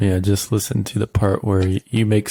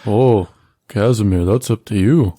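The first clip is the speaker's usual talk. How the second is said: snooty voice; 3 dB louder than usual. Acted. Player voicing Fenrith in character.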